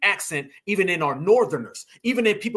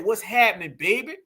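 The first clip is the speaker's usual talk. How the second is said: regional Southern accent. Shown as a demonstration. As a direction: demo of a Southern regional accent, rising on baby. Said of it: "where this accent comes from".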